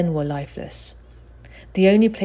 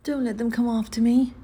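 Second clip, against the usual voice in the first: prayed; 7 semitones higher than usual. A narrator's reading. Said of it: "he prayed".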